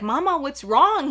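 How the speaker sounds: gently alarmed retold question; worried brother. Brother asks his crying sister what's wrong, worried.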